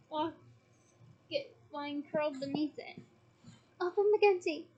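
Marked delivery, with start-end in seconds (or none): 3.8-4.7 louder, higher spell shout; urgent shouted incantation. Acted. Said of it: "he shouted".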